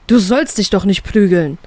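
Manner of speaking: a hint of a loud scolding father; mild fatherly telling-off; scolding loudly. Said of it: "schimpft mein Vater lautstark".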